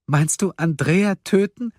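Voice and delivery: high, distraught question; desperate cry. A narrator's reading. Woman protesting the vote, desperate cry. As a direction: cry out in disbelief and despair. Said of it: "rief Silje verzweifelt".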